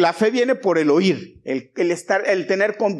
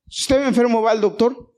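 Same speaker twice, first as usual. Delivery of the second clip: raised, insistent question to the congregation; livelier, higher-energy call for an answer; prompting for a response; 4 semitones higher, 4 dB louder than usual. Shown as a demonstration. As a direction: put it to the crowd with a lifted voice. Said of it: "Otra vez lo voy a pedir".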